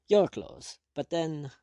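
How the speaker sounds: stunned rising disbelief. A narrator's reading. Prisoner realizes the stranger wears his clothes, aghast. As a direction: struggle to grasp what he sees. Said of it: "and still more aghast".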